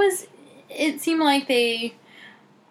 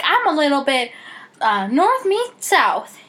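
put-on southern accent; 4 semitones higher, 3 dB louder than usual. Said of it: "gave her a southern accent".

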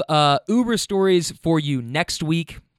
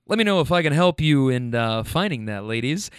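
mock deep voice, dropping lower toward the end; exaggerated deep voice. Driver offering help to ladies, exaggerated deep voice. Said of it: "in this exaggerated deep voice".

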